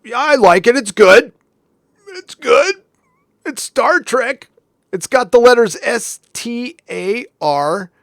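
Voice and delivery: high, slow, forced-cheerful fan voice; mock a fan pretending to enjoy it; mocking Picard fans. Streamer mocks pro-Picard channels, forced cheerful voice. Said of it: "They're like".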